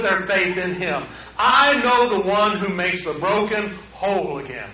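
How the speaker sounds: slow, solemn preaching build. Acted. Preacher closes the sermon proclaiming Jesus, slow and solemn. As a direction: testify slowly and firmly.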